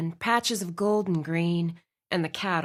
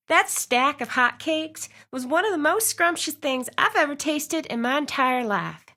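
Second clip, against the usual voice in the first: higher, delighted rave; gushing; 6 semitones higher than usual. A narrator's reading. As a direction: finally let the delight pour out. Heroine gushing about food.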